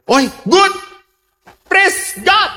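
high, bright cry of delight; happy exclaiming. Retold or imitated. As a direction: pastor rejoicing at the wedding news, exclaiming happily. Pastor's joyful exclamation.

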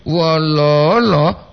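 Wololo, very slow with every O held; drawn-out Wololo. Shown as a demonstration. Host repeats the greeting very slowly to show the difference. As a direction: savour each O of Wololo. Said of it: "Karena beda".

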